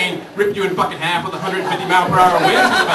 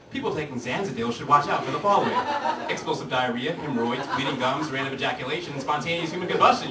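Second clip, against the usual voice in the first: lower, quiet voice-over reading side effects; 5 semitones lower, 4 dB quieter than usual. Retold or imitated. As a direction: read it like a fast pharma disclaimer. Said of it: "that little voice comes over and goes".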